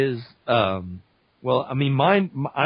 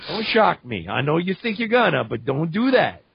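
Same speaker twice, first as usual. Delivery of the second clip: higher, playful Cajun warning; Gambit; 4 semitones higher than usual. Acted. Gambit warding off Storm's lightning, teasing Cajun warning. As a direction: plead teasingly in a Cajun accent. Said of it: "Gambit would be a totally different character".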